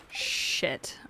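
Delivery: whispered low curse under the breath; muttered curse. Real, not acted. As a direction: swear quietly to yourself. Swearing under breath at rain rule.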